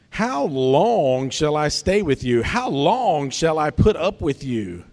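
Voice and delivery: slow, pointed rebuke; tense, pointed. Acted. Jesus to his disciples, tense and pointed. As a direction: press each question right at them. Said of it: "It's, like, pretty tense".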